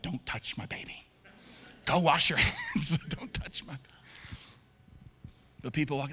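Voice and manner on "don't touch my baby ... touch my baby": protective whisper. Retold or imitated. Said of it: "You're like".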